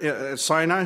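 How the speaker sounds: ordinary talk, nothing marked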